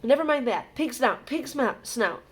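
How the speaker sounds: hurried, high, out of breath; winded and urgent; panted. A narrator's reading. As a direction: gasp the password after running. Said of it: "panted Harry".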